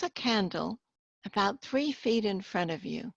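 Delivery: measured guided imagery with long pauses between phrases; guided relaxation. Acted. Hypnotherapist guides listeners to picture a candle flame, guided relaxation. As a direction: lead the listener gently into focus, pausing after each instruction.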